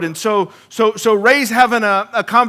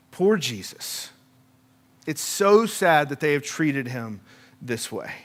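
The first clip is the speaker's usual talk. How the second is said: mock pity; 5 semitones lower, 7 dB quieter than usual.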